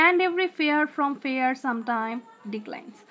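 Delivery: very slow, each syllable set apart; slow scansion reading. Shown as a demonstration. Teacher reading the sonnet line to students, very slow. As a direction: read the line beat by beat. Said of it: "এই যে and".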